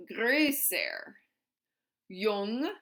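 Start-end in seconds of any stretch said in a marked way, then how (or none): 0.1-1.1 "größer" with the O fronted to a rounded Ö; umlauted O. Shown as a demonstration. Teacher modelling the comparative of groß, "größer" with umlauted O. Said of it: "we're gonna umlaut that O".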